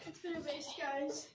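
spooky whisper. Pretend. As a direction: breathe it unvoiced. Repeats the line whispering.

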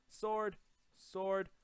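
high, loud one-word shouts; urgent call. Real, not acted. Gamer scrambling for a weapon, high urgent shouts.

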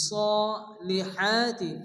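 very slow সলিহাতি, long rounded so and long haa; chanted, drawn-out সলিহাতি; long vowel stretch. Shown as a demonstration. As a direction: hold the first vowel of সলিহাতি. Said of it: "এক আলিফ টান দিয়ে".

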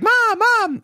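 very high mock kid's holler; imitated yelling. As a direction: call up to mom, imitating an insistent child. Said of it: "my grandmother yells up to her mom".

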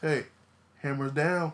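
ordinary delivery

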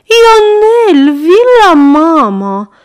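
put-on high, loud call to the boy; mother calling. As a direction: call the child back sharply. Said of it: "strigă iar Madame Popescu".

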